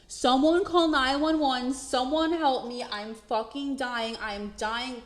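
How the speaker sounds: 高喊开头，逐渐减弱的半真半假的求救喊叫; retold panicked screaming. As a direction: start with a loud, high panicked yell and let it fade. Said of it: "I just started screaming, like, bloody murder".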